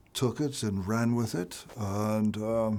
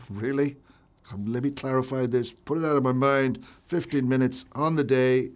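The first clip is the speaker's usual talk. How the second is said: incredulous echo; 3 semitones higher, 5 dB louder than usual. Retold or imitated. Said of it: "I thought".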